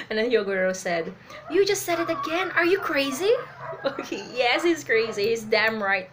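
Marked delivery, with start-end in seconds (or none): 1.5-3.3 raised, loud voice of exasperation; incredulous character telling-off; acted scolding. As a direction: scold in disbelief, high and loud. Voices Hyogoro scolding Luffy.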